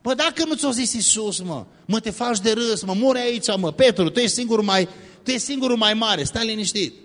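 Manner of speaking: high-pitched mock yelling, kept down in volume; hammed-up high, strained objection; yelling disciples. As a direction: protest like panicked disciples scolding a reckless friend. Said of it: "urlând".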